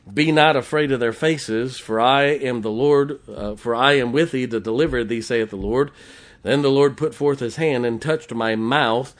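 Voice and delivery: emphatic pulpit reading; scripture reading. Acted. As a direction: declaim the verse firmly to the congregation. Reads scripture aloud from the pulpit.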